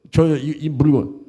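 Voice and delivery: slow, stumbling sales pitch; halting, inept salesman; bumbling salesman. Acted. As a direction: act a tongue-tied seller struggling slowly through it. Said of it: "조금 어눌하게 어리부리 해가지고".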